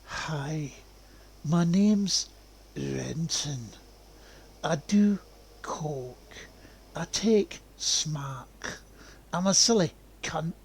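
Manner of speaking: lilting Scottish voice, mildly put on; Scottish lilt, lightly imitated, slow on smack; Scottish accent. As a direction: imitate a Trainspotting Scot with a lilt. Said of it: "So it's like a lilt to it".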